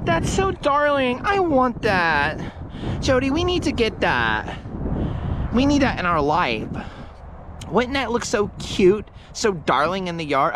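high, slow, gushing coo over something darling; gushing Alicia. Retold or imitated. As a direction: coo over it like a smitten girlfriend. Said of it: "she'd be like".

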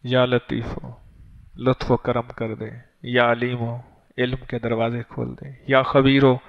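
slow and low, each name "या लतीफ हो" followed by a sincere plea; heartfelt supplication. Shown as a demonstration. Preacher showing the right way to read the tasbih, heartfelt. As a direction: pray each name tenderly, asking from the heart. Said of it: "ना, ऐसे ना पढ़ना".

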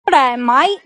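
put-on Australian-accented greeting. Soulmate showing their accent, Australian greeting. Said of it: "Your soulmate's accent is Australian".

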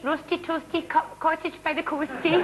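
sing-song cosy Scottish presenter; a hint of cosy Lorraine Kelly. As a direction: rhyme it cosily and smugly. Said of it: "cosy and smug".

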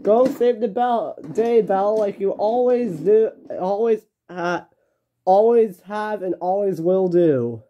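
high-pitched cheering send-off; shouted. Acted. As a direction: call encouragement after her, drawing the words out. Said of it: "shouted Harvey".

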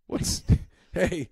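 high, mock-innocent customer voice; mock clueless customer. Customer at barbecue joint asking for hot dog, mock innocent. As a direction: play the naive diner asking for the wrong food.

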